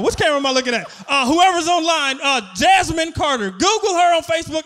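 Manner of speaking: loud mock public appeal; calling out publicly. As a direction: broadcast the name to the whole crowd. Calls out ex's name to audience.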